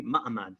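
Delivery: "Ma'amad" with no h sound; "Ma'amad", a open and h dropped. Shown as a demonstration. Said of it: "it says more correctly".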